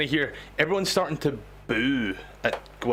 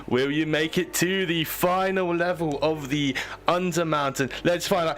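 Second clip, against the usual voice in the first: lightly taunting TV showman; a touch of showman hype, building to the question; game show host. Acted. Host quizzes a contestant.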